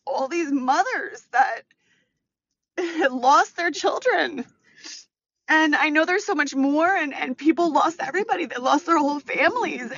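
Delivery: holding back tears while picturing grieving mothers; getting emotional. Real, not acted. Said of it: "I'm getting so emotional".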